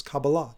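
Kabbalah said the Israeli way, stressed on the final syllable; traditional pronunciation. Shown as a demonstration. Shows traditional versus Anglo pronunciation.

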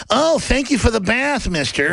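slow, loosely imitated Brooklyn cartoon lilt; Bugs Bunny. Bugs Bunny thanks the pygmies for his bath, loosely imitated. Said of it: "Bugs Bunny imitation of that Brooklyn accent".

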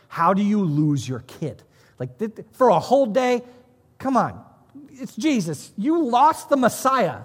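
high, loud disbelief at bad parents; incredulous. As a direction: scold them in amazed disbelief. Mocking his old reaction to parents.

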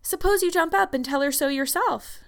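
merry. A narrator's reading. Missus Allen surprises Anne at her bedside, merry. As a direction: coax her up merrily. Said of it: "said a merry voice".

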